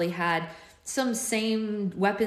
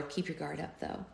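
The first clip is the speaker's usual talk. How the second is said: lower voice; 3 semitones lower, 11 dB quieter than usual. A narrator's reading. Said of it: "dropping my voice lower".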